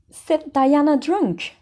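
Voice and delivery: stunned guardian questioning the charge; amazed disbelief. A narrator's reading. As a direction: repeat it in blank amazement. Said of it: "when she found her voice".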